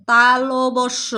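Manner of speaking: তালবস্য stretched very slowly, syllable by syllable; very slow repeat. Shown as a demonstration. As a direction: drag তালবস্য out for pupils to copy. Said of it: "আমার সাথে আবার বলো". (খুব ধীরে টেনে তালবস্য বলা)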